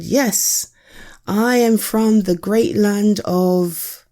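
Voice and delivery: a hint of a slow, proud herald turtle; grand turtle messenger. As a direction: announce yourself like a pompous little turtle. Turtle character speaks.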